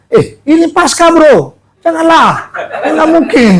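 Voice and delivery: high, breezy brush-off with a laugh; mock casual refusal. Pastor imitating himself turning down a Jakarta invite, high and laughing. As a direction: toss it off to a buddy, amused. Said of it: "tentu jawaban saya".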